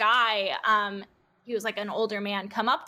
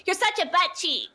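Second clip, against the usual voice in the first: high laughing scold; mock kid scolding, laughing; 8 semitones higher than usual. Redoing the church camp line without God, laughing. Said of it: "sorry, they can't say God".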